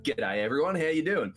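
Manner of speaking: lightly voiced casual greeting; Mordecai. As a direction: give a light, easygoing character hello. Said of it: "That's pretty much how he talks".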